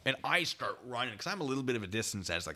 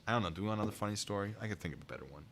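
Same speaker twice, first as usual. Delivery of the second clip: ordinary talk, nothing marked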